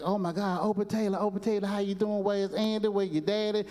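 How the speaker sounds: high, excited and quick; excited Gomer. Retold or imitated. Gomer gushing at Opie in the barracks, high and excited. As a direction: gush over the boy like a starstruck private. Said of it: "he got so excited".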